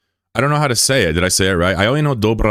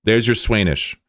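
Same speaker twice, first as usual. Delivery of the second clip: high whoop, then a playful there you go; mock announcement; 5 semitones higher than usual. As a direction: hand it over with a cheeky whoop. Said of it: "we were like".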